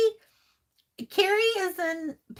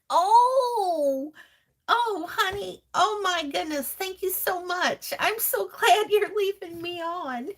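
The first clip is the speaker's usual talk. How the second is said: delighted; 4 semitones higher than usual. Real, not acted. Touched by a viewer.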